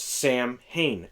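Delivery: "Sam Hain" split like a first name and surname; two separate words. Shown as a demonstration. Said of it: "seen it where it's".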